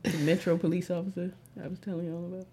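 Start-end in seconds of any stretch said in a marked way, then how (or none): 1.6-2.5 whispering. Real, not acted. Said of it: "Why are you whispering like we're not recording?".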